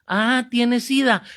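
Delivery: high, slow, booming question; loud acted blurting. Priest repeats the whispered secret aloud, loud acted blurting. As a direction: announce the secret for all to hear.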